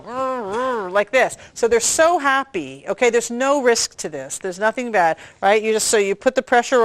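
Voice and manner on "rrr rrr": mock straining grunt, rolled r; baby straining. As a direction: imitate a baby pushing hard to poo. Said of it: "it took them an hour to go".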